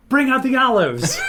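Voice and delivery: high, loud mock announcer shout; imitated showman's call. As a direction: call it out like a show host's big reveal. Imitating host calling for olives.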